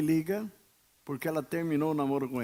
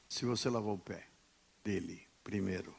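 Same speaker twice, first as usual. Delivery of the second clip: dropped voice; 8 semitones lower, 7 dB quieter than usual. Acted. Queda de voz no ensino.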